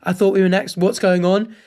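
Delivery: imagined polite complaint; a mildly puzzled, civil question; respectful query. Pretend. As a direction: voice a reasonable customer checking in. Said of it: "says it in a respectable tone".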